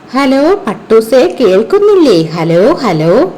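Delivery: a sister calling her kite. Acted. Abida calls kite on phone.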